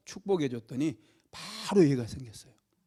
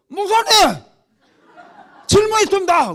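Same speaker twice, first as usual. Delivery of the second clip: put-on loud, high-pitched drunken shout; hammed-up drunk interrupting at full volume; drunk heckler; 14 dB louder than usual. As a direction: imitate a drunk calling out from the pews. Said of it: "술 먹은 사람들이".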